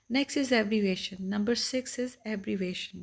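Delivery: slow, deliberate topic heading; teacher reading out the next heading; slow announcement. Shown as a demonstration.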